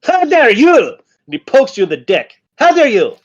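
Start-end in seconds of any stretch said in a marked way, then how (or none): 0.0-0.8 high-pitched indignant goblin shriek; a little goblin's mock fury; squeaky goblin outrage. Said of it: "and he's like". 2.6-3.2 high-pitched indignant goblin shriek; a little goblin's mock fury; squeaky goblin outrage. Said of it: "and he's like".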